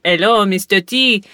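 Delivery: lightly imitated French accent; a mock French-accented greeting; Christopher Sabat's French accent. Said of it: "Sabat's French accent isn't that bad".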